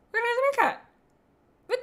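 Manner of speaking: high, loud, bewildered; startled. Real, not acted. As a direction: caught off guard. Surprised at the list.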